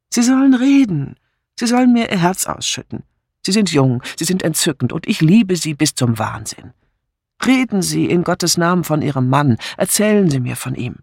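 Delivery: urging plea, pitch jumping at the start; lightly voiced lover pressing for answers; impassioned suitor. Suitor begging the woman to talk of her husband, mildly impassioned.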